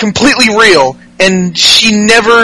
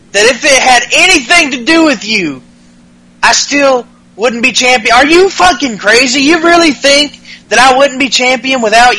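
higher, heated mock rant; playing the angry wrestler mid-argument; imitating Styles; 4 semitones higher than usual. Podcast host voicing Styles yelling at Ellsworth, mock angry. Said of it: "he's like".

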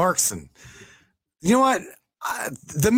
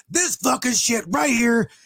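mock yell, pitched up, retelling the union guy's rant; retold angry rant; 5 semitones higher than usual. Driver mimics union rep ranting on Facebook, mock yell. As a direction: bark it out like an old-school union rep fed up on Facebook. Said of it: "He's like".

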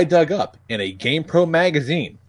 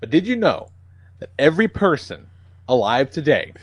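clickbait video narrator. Pretend.

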